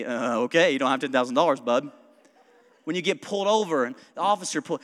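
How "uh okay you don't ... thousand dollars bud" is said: low-pitched, lightly voiced teller; mock-patient teller, pitched down; unimpressed bank teller. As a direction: drop low to humor a deluded customer. Acted bank teller refusing him.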